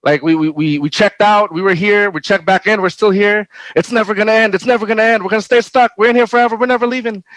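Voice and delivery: freaking out. Retold or imitated. Stuck on a long warehouse shift, mind freaking out in panic. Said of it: "It started freaking out, going".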